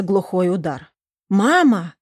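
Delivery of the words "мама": calling out for mom, a bit louder; anxious call of mama. Acted. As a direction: call down the phone to her mother. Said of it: "закричала Лиза".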